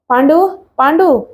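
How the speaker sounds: a hint of a panicked yell, drawn out; mock shout for servant. Old man calls his servant Pandu in a mild mock yell. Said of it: "గొంతు చించుకుని అరిచాడాయన".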